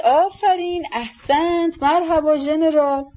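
high-pitched cry of bravo; cheering cry. A narrator's reading. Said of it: "فردیشچنکو فریاد زد".

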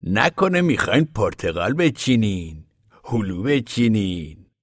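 slow, sly teasing. Acted. Ragged man to Papa, slyly mocking. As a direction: draw it out like a sly tease. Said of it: "فریبکارانه گفت".

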